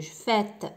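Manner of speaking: فات with an ê between closed and open; teacher modelling fête; circumflex vowel demo. Shown as a demonstration. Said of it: "كنقولوا لها فات ما بيناتهم بجوج".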